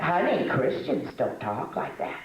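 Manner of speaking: teacher's gentle rebuke. Retold or imitated. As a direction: gently correct her, slowly. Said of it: "Tell how she say".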